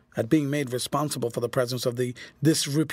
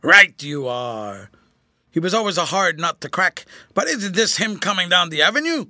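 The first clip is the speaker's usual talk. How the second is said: put-on gruff old soldier; 4 semitones higher, 7 dB louder than usual. A narrator's reading. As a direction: growl it out like a sly old trooper. Corporal voiced in story.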